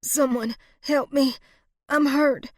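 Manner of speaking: high, loud, distressed call; pained cry for help. A narrator's reading. Wounded Rosalie calling anyone for help, high pained cry. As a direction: call out hurt and needy.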